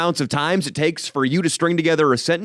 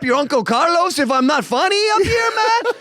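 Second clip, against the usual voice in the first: high, loud mock Latino accent; 12 semitones higher, 4 dB louder than usual. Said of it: "riffed on the Latino accent".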